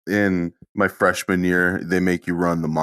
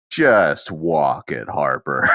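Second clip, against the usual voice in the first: disgusted; 3 semitones lower, much slower than usual. Retold or imitated. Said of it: "with abject disgust and says".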